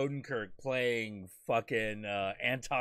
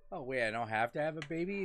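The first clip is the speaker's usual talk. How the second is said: fast, eager relief; imitating a woman glad to skip babies; relieved women; 2 semitones higher, much faster than usual. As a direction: rattle it off in mock delight. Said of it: "they're like".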